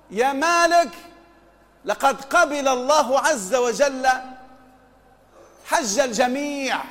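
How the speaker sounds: slow, drawn-out proclamation of a retold call; caller proclaiming. A caller announces to Malik in his dream, lightly proclaiming. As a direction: call it out in measured, stretched phrases, lightly voiced. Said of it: "مناديا ينادي".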